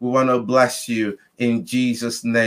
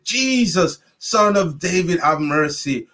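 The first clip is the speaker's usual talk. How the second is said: shouted plea. Retold or imitated. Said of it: "the more he shouted and screamed".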